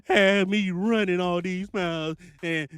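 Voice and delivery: lightly voiced frustrated trucker; complaining broke driver. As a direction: whine like a driver who wasn't warned. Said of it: "I don't want you out here saying".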